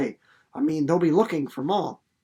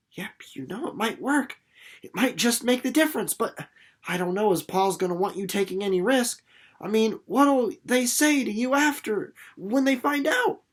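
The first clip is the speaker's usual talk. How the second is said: a hint of an unsure boy; doubtful boy; 6 semitones higher than usual. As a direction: weigh it up, hesitant. Reads Jessie's doubtful reply.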